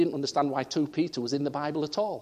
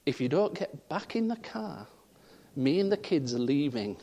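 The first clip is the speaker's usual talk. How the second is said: stern wife voice; 4 dB quieter than usual. Retold or imitated. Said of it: "that voice that said".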